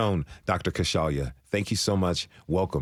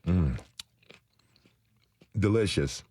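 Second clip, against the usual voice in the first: talking with a mouth full of tomato. Real, not acted. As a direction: chew and talk with a full mouth. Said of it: "sorry to talk with my mouth full of food".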